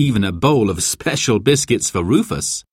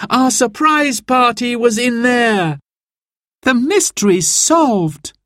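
excited cry; 13 semitones higher than usual. A narrator's reading. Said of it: "cried Sarah".

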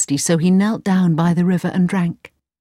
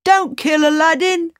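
angry crowd voice shouting; 9 semitones higher than usual. Acted. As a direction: yell it at the palace. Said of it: "shouted one man".

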